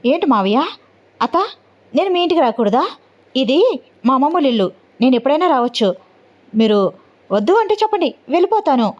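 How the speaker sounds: a touch of anger, lightly voiced; understated annoyed retort to her uncle; angry. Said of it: "అని అంటూ ఉంటుంది కోపంగా".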